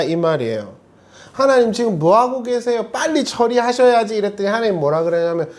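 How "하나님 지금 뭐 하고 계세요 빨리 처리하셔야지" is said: impatient complaint. Retold or imitated. Believer impatiently complains to God.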